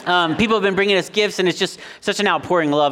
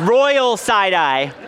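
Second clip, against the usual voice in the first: side eye; 3 semitones higher, much slower than usual. Shown as a demonstration. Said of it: "I have an example".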